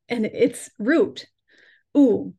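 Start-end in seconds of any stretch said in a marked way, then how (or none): 2.0-2.3 "oo" sounded alone, louder, as a long U; vowel demo. Shown as a demonstration. Showing the root chakra sound, "oo" held as a long vowel. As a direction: hold "oo" as one long vowel. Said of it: "So that oo sound".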